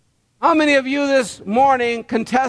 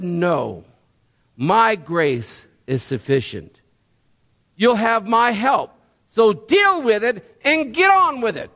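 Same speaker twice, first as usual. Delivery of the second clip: voicing God. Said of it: "But God said".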